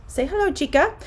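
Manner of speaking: high, lilting coaxing voice; talking to pet. Real, not acted. Talking to her dog.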